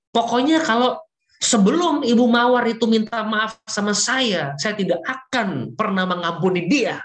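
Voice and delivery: lightly voiced stubborn refusal, pitch up; angry Ibu Bunga. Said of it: "Ibu Bunga bilang sama saya". (meniru ibu yang marah, suara agak tinggi)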